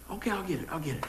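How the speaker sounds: soft, sinking reply of a nagged son; mock reluctant compliance. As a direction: give in quietly, imitating a son. Son gives in to dad.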